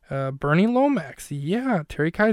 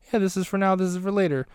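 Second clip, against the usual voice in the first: put-on a touch higher, lightly cutesy girl; cutesy Roxy; 5 semitones higher, faster than usual. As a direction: play it a little cute and coy, lightly voiced. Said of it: "Roxy just being cutesy".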